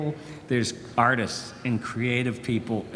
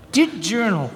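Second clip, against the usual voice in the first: Doug voice; 6 semitones higher, 4 dB louder than usual. Acted. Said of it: "Did he say Dear Diary?".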